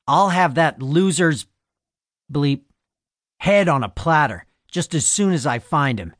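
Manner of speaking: mild bellow. Acted. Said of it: "he bellowed".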